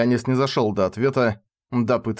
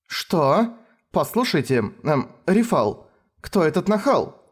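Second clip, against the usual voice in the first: displeased; 6 semitones higher, slower than usual. A narrator's reading. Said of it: "спросила она недовольно".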